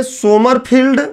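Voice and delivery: "सोमरफील्ड" with o first and long ee last; Sommerfeld as सोमरफील्ड. Shown as a demonstration. Teacher naming the fourth model, "सोमरफील्ड" said so-mar-feeld. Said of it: "कुछ लोग इसको सोमरफील्ड ना बोलकर".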